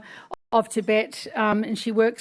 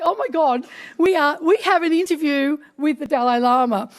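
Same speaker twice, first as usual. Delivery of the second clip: higher-pitched delighted disbelief; amazed excitement; 4 semitones higher than usual. Retold or imitated. Telling audience of landing the interview, amazed excitement. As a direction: retell thrilled astonishment at a coup. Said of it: "unbelievably, he said yes".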